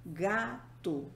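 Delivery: "gato" split, weight on "ga"; stress on penultimate syllable. Shown as a demonstration. Teacher giving a paroxytone example, penultimate syllable stressed. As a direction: sound out "gato" with "ga" as the strong syllable. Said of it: "a penúltima sílaba".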